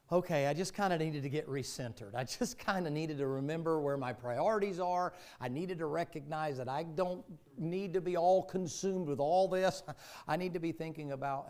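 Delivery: impassioned, high and loud self-exhortation; emphatic resolve. Acted. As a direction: build to a forceful peak, voicing a believer's resolve. Preacher voices a believer's resolve to refocus.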